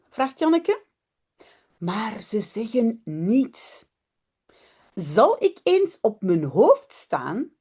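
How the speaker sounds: lively storybook reading with voiced characters; reading to children. A narrator's reading. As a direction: read it like a bedtime story for little ones. Reads Dutch children's story aloud. (lecture d'histoire pour enfants, animée)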